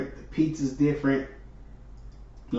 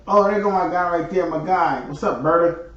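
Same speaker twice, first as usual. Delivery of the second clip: loud, higher shout-out to a regular; excited greeting; 4 semitones higher, 6 dB louder than usual. Real, not acted. Streamer spots a regular arriving in chat, excited greeting. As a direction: hail your guy as he walks in.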